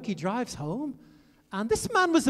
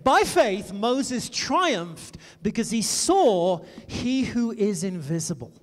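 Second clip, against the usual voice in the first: scripture read with emphasis; 3 dB louder, slower than usual. Acted.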